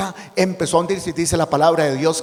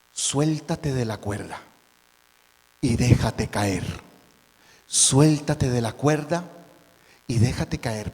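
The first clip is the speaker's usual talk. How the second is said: calm command; 3 semitones lower, slower than usual. Acted. God speaks calmly.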